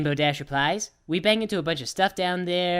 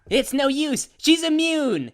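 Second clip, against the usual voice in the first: high, rising exclamation; high dramatic cry; 10 semitones higher, slower than usual. Pretend. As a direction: cry it out in a squeaky panic.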